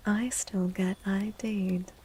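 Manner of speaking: whispered aside. Acted. Streamer telling chat in a whisper that she still gets carded. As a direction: whisper it like a small secret.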